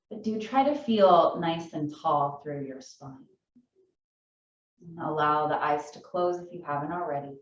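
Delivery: calm yoga teacher guiding a seated class; guided meditation. Acted. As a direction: ease them into stillness, unhurried.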